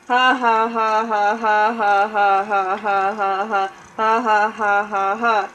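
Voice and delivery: loud mock cackle, ha by ha; acted laughter. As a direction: ham up a long fake laugh. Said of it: "laughed Don".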